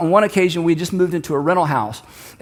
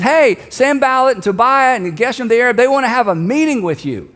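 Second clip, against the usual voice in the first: raised, higher-pitched hail from below; messenger calling up; 5 semitones higher, 4 dB louder than usual. Acted. Messenger hails Nehemiah up on the wall, calling up. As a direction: call up to someone on a wall. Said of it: "the messenger looks up and says".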